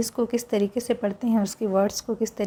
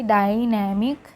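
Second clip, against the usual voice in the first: slow repeat reading; much slower than usual. Shown as a demonstration. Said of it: "फिर से पढ़ेंगे".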